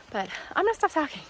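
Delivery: winded, gasping between words; breathless from the climb; out of breath. Real, not acted. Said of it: "because I'm out of breath".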